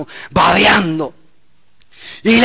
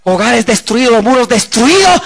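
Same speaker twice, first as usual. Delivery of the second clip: impassioned lament; 5 semitones higher, 4 dB louder than usual. Real, not acted. Preacher decrying broken homes.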